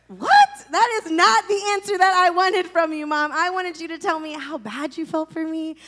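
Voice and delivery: high, loud indignant cry; hammed-up indignant protest at mom; mock outrage. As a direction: act stunned and offended by the answer. Outraged reply to mom's answer.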